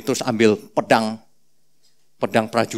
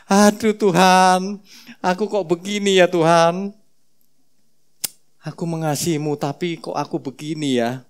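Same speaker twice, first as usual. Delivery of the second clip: weeping Peter; 3 semitones higher than usual. Acted. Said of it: "Nangis terseduh-seduh Petrus".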